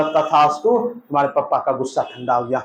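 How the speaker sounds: a hint of a solemn god; lightly voiced Yamraj. Yamraj grants the boon.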